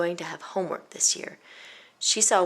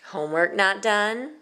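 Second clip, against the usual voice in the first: big voice; 4 semitones higher than usual. Pretend. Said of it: "she'd say in her big voice".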